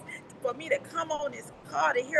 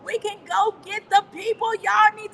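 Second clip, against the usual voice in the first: excited shout; 6 semitones higher, 7 dB louder than usual. Real, not acted. Coach shouts the new countries to the call in excitement. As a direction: announce every country like a win.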